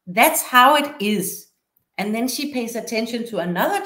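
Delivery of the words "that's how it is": slow and firm, closing the matter; resolute. Retold or imitated. Teacher ends the argument with the child, slowly and firmly. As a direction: put your foot down gently, slowly. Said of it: "Now Hannah says resolutely".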